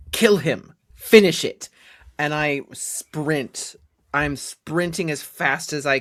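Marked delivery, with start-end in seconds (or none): 0.1-1.7 acted yell. Theodorus yells to Anthus across the battle, urgent yell. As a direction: yell it as an order to a comrade. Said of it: "yell to Anthus".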